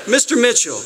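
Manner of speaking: put-on high, laughing Southern judge accent. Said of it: "I'll try to do a Southern accent".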